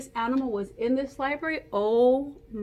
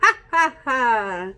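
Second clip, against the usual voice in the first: hyena laugh; 6 dB louder, slower than usual. Shown as a demonstration. Teacher leads the kids in a loud hyena laugh. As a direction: belt out a cartoon hyena laugh. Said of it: "we're gonna make the laugh of".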